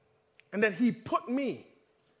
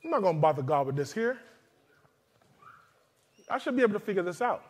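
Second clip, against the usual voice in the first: inner voice; 4 dB quieter, faster than usual. Retold or imitated. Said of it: "'cause you're thinking".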